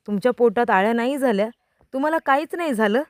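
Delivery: she can't believe he's fine; stunned disbelief. Acted. Wife stunned he is not sick.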